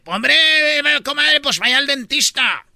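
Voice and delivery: stretched Castilian exclamation; Spanish accent. Acted. Spaniard sends comadre to the dentist, Spanish accent. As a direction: play up the Castilian lisp and hiss. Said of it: "En España dice".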